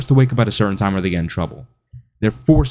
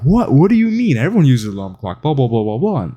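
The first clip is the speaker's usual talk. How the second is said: mock incredulous; 3 semitones higher than usual. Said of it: "people are like".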